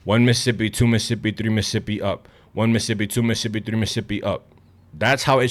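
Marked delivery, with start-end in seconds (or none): 0.0-2.3 slow, even three-second count. Shown as a demonstration. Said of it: "should take you three seconds". 2.5-4.5 slow count, fading softer. Shown as a demonstration. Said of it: "should take you three seconds".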